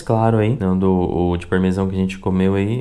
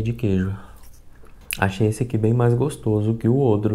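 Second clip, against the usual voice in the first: talking while eating cracker; crunchy snack mid-bite; mouth full, chewing; 3 dB quieter than usual. Real, not acted. Seen 1: Puts cracker in mouth near 4.1s, then talks while chewing.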